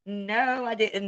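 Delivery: giggling denial, pitch up; laughing no. Real, not acted. Streamer laughing off a viewer's question, giggling. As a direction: laugh it off while saying no.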